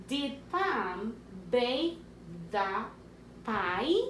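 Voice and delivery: slow, deliberate question read for dictation; teacher dictating a question slowly. Shown as a demonstration. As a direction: spell it out in sound, word by word. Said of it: "Second sentence".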